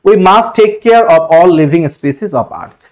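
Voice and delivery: very slow, drawn out word by word; slow dictation reading. Shown as a demonstration. Teacher reading the exam sentence to students, very slow. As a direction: read the sentence out slowly for the class. Corrected sentence read slowly.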